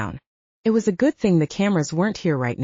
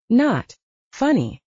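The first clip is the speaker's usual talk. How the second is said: sulky; 5 semitones higher, slower than usual. Acted. Sister sulking, drawn out.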